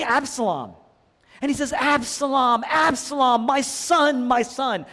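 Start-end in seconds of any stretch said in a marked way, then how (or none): 1.7-4.9 higher-pitched mock lament, not really crying; imitated weeping grief. Preacher voicing David cradling his dead son, grieving. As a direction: retell a father's anguished cry. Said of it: "David is weeping. He's crying".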